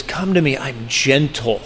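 a hushed gentle welcome; tender invitation. Acted. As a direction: draw them in quietly and tenderly. Voicing Jesus inviting softly.

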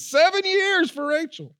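high eager blurt; blurting Jacob. Retold or imitated. Pastor voices Jacob blurting out his lovestruck offer high and eager. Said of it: "He says".

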